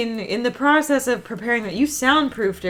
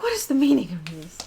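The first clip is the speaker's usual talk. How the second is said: whisper; 2 semitones lower, 4 dB quieter, much faster than usual. Acted. Countess voiced in scene.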